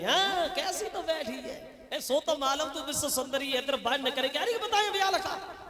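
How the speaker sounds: lightly voiced husband calling the bride from outside, teasing. Husband calls to his new bride from outside, mock calling out. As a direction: call out to the bride from outside, half mocking. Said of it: "बाहर से आवाज लगाई".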